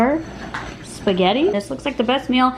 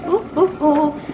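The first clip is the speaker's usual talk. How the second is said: excited; 5 semitones higher, slower than usual. Real, not acted. Spaghetti done cooking.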